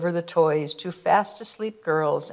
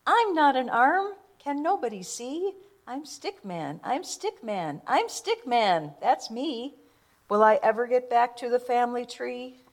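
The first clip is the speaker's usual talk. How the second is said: despairing Stickman; 6 semitones higher than usual. Acted.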